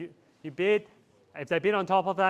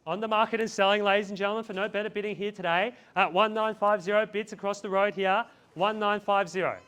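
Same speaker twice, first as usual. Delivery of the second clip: auctioneer call; 3 semitones higher than usual. Real, not acted. Auctioneer calling bids.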